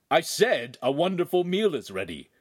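a touch gruffer, repeating himself; lightly voiced gruff father. A narrator's reading. Father repeats himself to his son, a touch gruffer. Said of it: "his voice was much gruffer".

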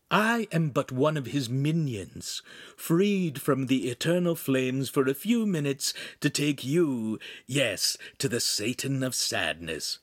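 lightly pompous minion; theatrical demon imp. Acted. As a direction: pronounce doom with mock solemnity. Imp plays the devil's minion.

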